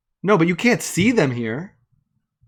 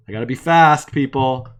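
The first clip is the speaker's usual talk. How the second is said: louder, urgent and hurried; loud urgent call; 5 dB louder than usual. Real, not acted. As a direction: call it out like a race. Rushing, calling out to viewers.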